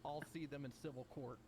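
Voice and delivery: soft, faint voice far from mic; quiet voice. Real, not acted. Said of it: "Bloom, you're really quiet".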